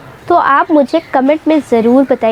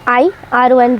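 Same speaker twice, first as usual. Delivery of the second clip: normal talking voice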